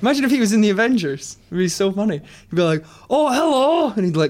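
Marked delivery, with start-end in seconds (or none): 3.1-3.9 very high-pitched put-on ogre voice. Imagining Shrek joining the Avengers and greeting everyone: Shrek voice. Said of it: "And it was a good Shrek".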